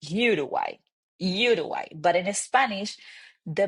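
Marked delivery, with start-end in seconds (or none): 0.0-1.9 Uruguay as YOO-ruh-gway; English pronunciation. Shown as a demonstration. Teacher showing the English version, English pronunciation. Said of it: "in English, it's very common to say".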